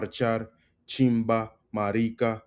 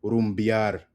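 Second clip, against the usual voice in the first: faster. Shown as a demonstration. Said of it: "if you say it faster".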